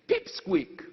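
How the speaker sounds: pops up high and thin on the word; squeaky mock word. Mocking the tiny newcomer in a squeaky voice.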